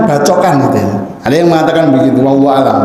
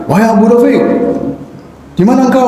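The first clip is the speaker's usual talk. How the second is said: disguised calling voice; 5 semitones higher, faster than usual. Retold or imitated. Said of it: "ucapannya itu dibuat, eh, gimana gitu ya".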